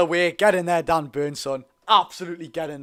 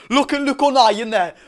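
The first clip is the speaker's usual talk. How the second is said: laughing disbelief; 6 semitones higher, 3 dB louder than usual. Real, not acted. Fan mocking rival captain's tackle.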